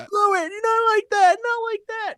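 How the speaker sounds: very high squeaky puppet voice; Kermit voice. Retold or imitated. Imitating an edited-in heckler, very high puppet voice. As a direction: scold in a squeaky mock puppet voice. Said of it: "the Kermit, uh, voice".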